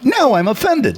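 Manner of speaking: high, slow, affronted declaration; theatrically wounded pride; mock offended. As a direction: draw it out in high-pitched indignation. Acts out being offended in retelling.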